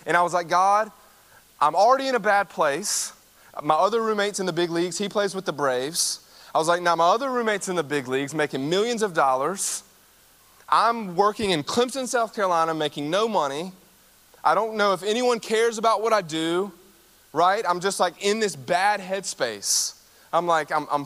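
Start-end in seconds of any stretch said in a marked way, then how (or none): 0.5-6.2 retold hissy fit. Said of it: "I threw a terrible hissy fit". 6.8-16.7 retold hissy fit. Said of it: "I threw a terrible hissy fit".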